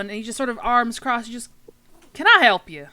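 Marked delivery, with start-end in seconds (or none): 2.1-2.9 Popeye. Acted. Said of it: "I'm gonna give him a Popeye feel".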